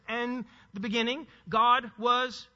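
deliberate weight on GOD and "was"; emphatic reading. Shown as a demonstration. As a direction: stress GOD after a short pause. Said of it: "if you want it for emphasis".

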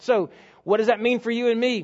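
normal talking voice

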